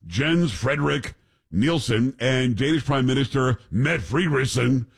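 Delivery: reading a headline aloud; news read. Acted. Reads out a news story.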